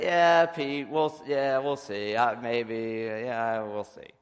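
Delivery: noncommittal. Retold or imitated. Man stalling Pete about getting on the bus, noncommittal.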